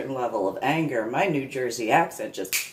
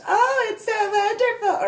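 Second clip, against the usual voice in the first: mocking fake Southern accent, much higher and louder; sugary fake Southern accent, pitched way up; 5 dB louder than usual. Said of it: "that fake Southern accent that she did".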